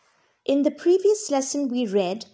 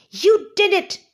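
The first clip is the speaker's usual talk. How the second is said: higher, louder thrilled cheer; excited gnome; 9 semitones higher, 6 dB louder than usual. Acted. Gnome congratulating Wilma, high and loud. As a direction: praise her wildly as the little gnome. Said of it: "shouted the gnome".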